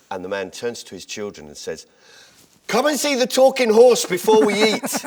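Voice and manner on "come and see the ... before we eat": put-on high, loud, cheery announcement to the kids; starving father's punchline. Father calls his hungry children over, high and loud. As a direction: sell it like a proud dad with a treat.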